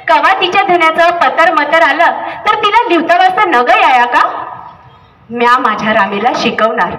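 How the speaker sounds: insisting his daughter will learn; father's voice. Acted.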